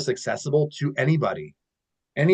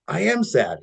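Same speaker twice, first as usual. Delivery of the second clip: pumped; 5 semitones higher, slower than usual. Retold or imitated. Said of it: "He was, like, pumped to be sad".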